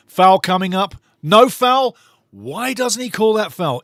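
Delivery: loud, high protest at the call; indignant commentator outburst; outraged shout. Real, not acted. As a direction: yell that it was a foul.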